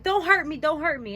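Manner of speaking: high, loud imitation of frightened pleading; exaggerated scared plea; mock pleading. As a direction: mimic someone crying out for protection.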